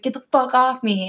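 mock boyfriend annoyance; annoyed boyfriend. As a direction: imitate his grumpy rejection. Boyfriend voiced again.

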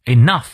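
"enough" ending on a held-out f sound; clear final f. Shown as a demonstration. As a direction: let the f at the end of "enough" be heard. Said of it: "f的音". (enough 词尾 f 音读清楚)

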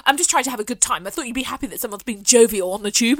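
mock a self-righteous passenger; passive-aggressive. Girl defending her video on the tube, passive-aggressive. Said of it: "passive-aggressive, annoying tone".

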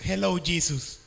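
lightly voiced Mario, pitch jumping up on "Mario". Retelling a meme to the crowd, high mock Mario voice. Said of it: "Y decía el meme".

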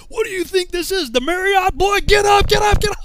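high, loud tirade building to a full yell; drill sergeant shouting. Retold or imitated. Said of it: "silhouette of this drill sergeant".

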